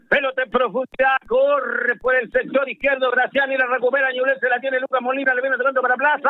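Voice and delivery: live radio football call; excited play-by-play. Real, not acted. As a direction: follow the attack urgently on radio.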